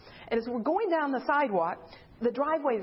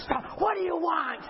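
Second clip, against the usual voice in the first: sudden, higher-pitched challenge; imitated big woman; 4 semitones higher than usual. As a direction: confront the visitors as a huge woman. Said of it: "this big, huge woman comes".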